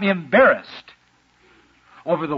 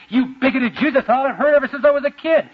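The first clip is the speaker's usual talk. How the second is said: higher and louder, bristling at the Jews; indignant outburst; 9 semitones higher, 3 dB louder than usual. Retold or imitated. Samaritan woman snapping at Jesus, indignant and loud. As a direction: throw it back at him, offended.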